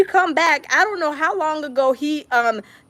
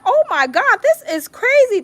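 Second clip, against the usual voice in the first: laughing disbelief; 7 semitones higher than usual. Real, not acted. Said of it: "I'm like".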